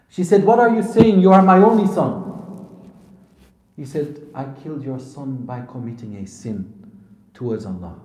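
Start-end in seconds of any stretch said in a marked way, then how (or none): 0.4-2.2 loud, high disbelieving protest; shocked outcry. Retold or imitated. Mother answering her son's confession, shocked. 4.3-7.9 low, soft, grave admission; remorseful confession. Retold or imitated. Son explaining his sin to his mother, remorseful. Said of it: "This was how he felt".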